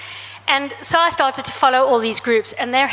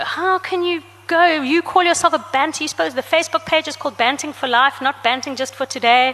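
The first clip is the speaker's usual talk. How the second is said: mock outraged commenters; 4 semitones higher than usual. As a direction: ham up the online pile-on, scolding her. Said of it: "So people attacked her".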